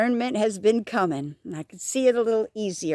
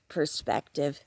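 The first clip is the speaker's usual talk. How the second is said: quiet echo; 7 semitones lower, 8 dB quieter, slower than usual. Shown as a demonstration. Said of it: "repeated key word".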